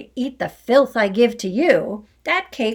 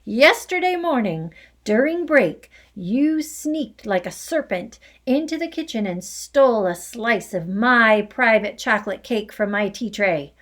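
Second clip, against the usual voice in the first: loud, higher angry rant; furious tirade; 3 semitones higher, 5 dB louder than usual. Acted. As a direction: rage on about the stolen cake. Headmistress's furious accusing tirade.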